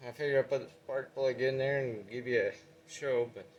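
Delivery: winded, short of air; puffing after a climb; out of breath. Real, not acted. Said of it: "Just me out of breath".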